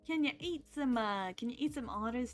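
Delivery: put-on Brooklyn gangster patter; Brooklyn accent. Streamer musing about eating otters, put-on Brooklyn accent. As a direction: keep up a playful Brooklyn accent. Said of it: "we doing the accent".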